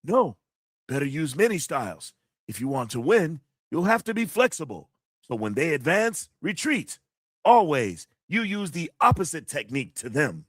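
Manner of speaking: lightly voiced kung fu master again; a hint of a sifu teaching; martial arts master voice. Shown as a demonstration. Streamer repeats the quote in the master's voice. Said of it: "I try to do the voice too".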